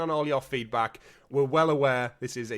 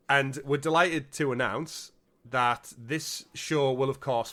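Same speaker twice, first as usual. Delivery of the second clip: slow, bright announcer delivery; mock cheerful announcement; slower than usual. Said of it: "not delighted to announce that".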